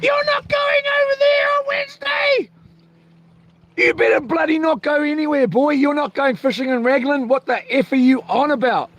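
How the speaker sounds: high-pitched mock wife scolding him; mocking his wife. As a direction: squeak out a nagging partner telling him off. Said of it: "My darling's most probably sitting there going".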